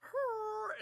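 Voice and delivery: high, loud imitated noise. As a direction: make a loud, high sound effect. Imitating sound of the shaver mishap.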